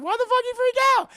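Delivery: high, loud mock yell; Doctor Seward. Seward confronts Van Helsing, hammed-up yell. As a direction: shriek the question in comic disbelief. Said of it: "Doctor Seward's like".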